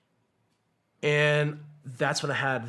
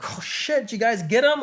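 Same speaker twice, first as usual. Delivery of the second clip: laughing; 10 semitones higher, 7 dB louder than usual. Retold or imitated. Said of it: "they're kinda, like, laughing".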